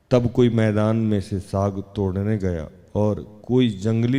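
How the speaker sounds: measured, low-key Bible reading; scripture reading. Acted. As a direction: read the passage aloud evenly, pausing between phrases. Reads the Bible passage aloud.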